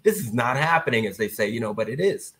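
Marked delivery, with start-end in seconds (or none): 0.0-1.1 awed fan; starstruck. Retold or imitated. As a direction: gush like a fan meeting heroes. Starstruck seeing Doc and Daryl.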